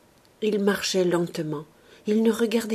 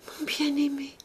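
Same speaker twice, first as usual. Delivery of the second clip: high, breath-thin dying call; fading; 8 semitones higher, 3 dB quieter than usual. A narrator's reading. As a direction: let the cry die away into a whisper. Dying girl's last fading call.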